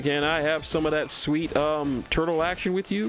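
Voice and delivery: wheedle, repeating the plea with upward lilts; mock pleading. Character begging the turtles for action, mock pleading.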